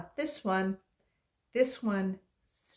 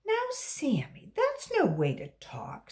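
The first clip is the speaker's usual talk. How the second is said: scolding teacher; 9 semitones higher than usual. Acted. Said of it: "said Missus Jules".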